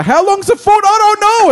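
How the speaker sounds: squeaky cartoon voice, high and loud; silly high voice. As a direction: play it like a dim cartoon. Acted inner dialogue, high voice.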